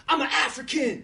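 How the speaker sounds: high shouted lead call; call to the crowd. Shown as a demonstration. Speaker leading the audience chant, shouted call. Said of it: "we'll do this one more time".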